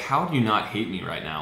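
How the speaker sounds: plain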